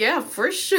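put-on Valley Girl accent. Shown as a demonstration. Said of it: "say all of her parts now in a Valley Girl accent".

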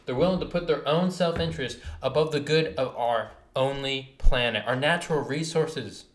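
heated rant, rising loud; pushing harder as the anger builds; fired-up rant about the planet. Real, not acted. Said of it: "this fires me up, dude".

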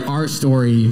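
"Our story" read as a mildly sinister brand voice, falling at the end; evil corporate label voice. Pretend. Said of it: "an evil version of those two little sections".

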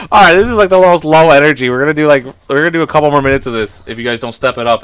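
rally them loudly, half joking; mock scolding. Real, not acted.

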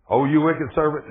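angry lord. Retold or imitated. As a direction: let the anger rise. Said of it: "And his Lord was angry".

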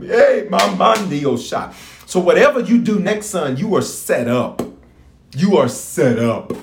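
fervent preacher exhorting the crowd; preaching. Acted. Preacher urging the online church to praise. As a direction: preach it to the congregation with fire.

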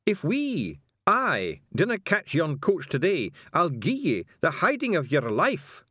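high Scots threat, drawn out; growled threat. A narrator's reading. Passenger threatening the carter, high Scottish growl. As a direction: menace the driver in slow, high Scottish. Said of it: "growled the passenger".

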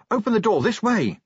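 loud urgent call; urgent shout. Acted.

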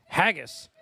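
slow, hammed-up Scottish accent; horribly overdone Scottish accent; over-the-top Scottish Sean Connery. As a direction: drag it out in an exaggerated Scottish film-star voice. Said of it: "Scottish over the top voice".

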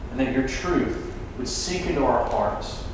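low-key, subdued public prayer. Real, not acted. Preacher prays to the Father after the sermon, subdued prayer.

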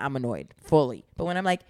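ordinary talk

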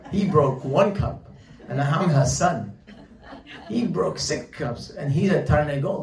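a hammed-up boy complaining about the chicken; indignant kid. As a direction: play the wronged child, laughing at the unfairness. Kid's outraged complaint retold.

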